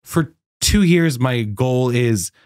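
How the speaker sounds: slow, halting disbelief; incredulous. Retold or imitated. Missionary after two years gets a currency chapter, incredulous. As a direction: spell out the absurdity, slowly.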